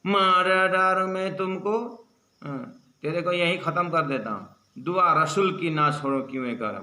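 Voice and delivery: mild retold angry threat; furious threat. Angry man threatening the cowering Ibrahim, mild mock anger. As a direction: threaten him in mock fury. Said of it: "इसका मतलब भयंकर गुस्सा में".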